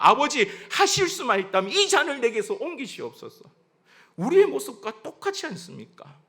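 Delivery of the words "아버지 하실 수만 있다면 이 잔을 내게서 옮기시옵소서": pleading prayer. Acted. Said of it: "기도하셨습니다".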